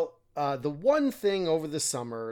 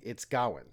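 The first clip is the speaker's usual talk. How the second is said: Gawain with a weak second syllable, unlike Dwayne; stress on first syllable; 3 semitones lower than usual. Shown as a demonstration. Showing it doesn't rhyme with Dwayne, first-syllable stress on Gawain. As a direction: punch the front of Gawain and reduce its ending. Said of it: "It doesn't rhyme with Dwayne".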